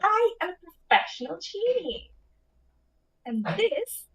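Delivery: genie voice. Pretend. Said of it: "give it your best genie voice".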